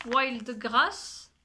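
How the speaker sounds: French speaker's showy attempt at English; self-mocked English accent. Real, not acted. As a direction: say it in a proud, amateur English accent. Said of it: "avec mon superbe accent anglais".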